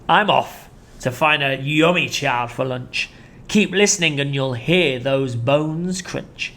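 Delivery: slow sinister relish; gloating crocodile. Acted. Crocodile taunting Chunky. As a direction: savour the threat.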